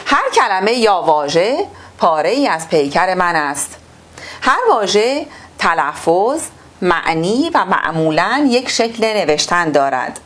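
measured, formal reading-aloud voice; textbook reading. Acted. Teacher reading the textbook to pupils, formal and measured.

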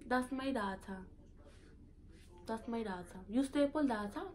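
soft Saint Thomas lilt; Virgin Islands accent. Shown as a demonstration. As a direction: speak like an islander. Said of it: "my accent".

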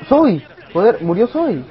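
sudden loud high cry of a name; shout. Real, not acted. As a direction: yell out in alarm. Teammate Zoe dies.

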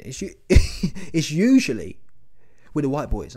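laughing admission. Real, not acted. Confessing to viewers about the white boys, laughing. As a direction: laugh through the embarrassing confession. Admitting something embarrassing, laughing.

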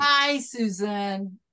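very slow, spelled-out reading; slow deliberate. Pretend. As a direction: draw out each word like decoding. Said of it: "say it just like that".

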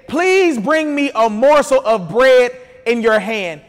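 measured preacher's Bible reading; scripture reading. A narrator's reading. Preacher reads the widow's story to the church, scripture reading. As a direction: read the story out to a congregation, stretching key phrases.

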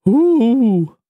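high loud hooting owl call. A narrator's reading. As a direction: hoot like a nervous owl. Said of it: "called Owl".

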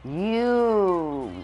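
sharp, high, loud yell of You; a startled gamer shouting at a teammate; sudden yell. Real, not acted. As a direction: yell it out in surprise.

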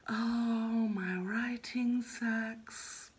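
slow, whiny self-doubting moan; whiny inner voice. Retold or imitated. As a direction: whine it out like a doubting inner critic. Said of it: "whining voice in my head".

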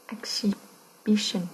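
"Exhibition" very slowly, with a break before "bition"; slow, broken up. Shown as a demonstration. Teacher helping students hear the stress, "Exhibition" slowly in parts. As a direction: split "Exhibition" in two, drawing it out.

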